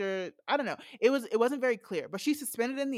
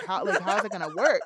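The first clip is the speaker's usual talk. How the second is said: louder, laughing through the quote; laughing disbelief; 6 dB louder than usual. Retold or imitated. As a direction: read it while cracking up. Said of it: "So she's like".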